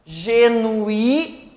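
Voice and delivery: GENUÍ with a long, held I; stress on final I. Shown as a demonstration. Teacher contrasting it with genuinamente, GENUÍ held on I. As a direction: stop on GENUÍ, stretching the stressed I. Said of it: "nós temos o i".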